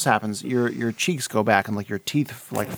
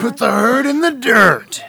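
wrestler voice; 8 semitones higher, 4 dB louder than usual. Pretend. Wrestler bit continues.

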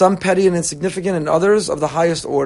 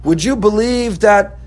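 higher, louder, petty griping about the flight; mock whiny complaint; 5 semitones higher, 5 dB louder than usual. Passenger complaining to a loved one, mock whiny and loud. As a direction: whine like a spoiled passenger. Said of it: "we'll tell you".

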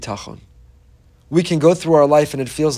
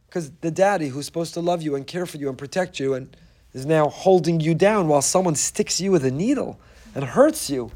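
normal talking voice

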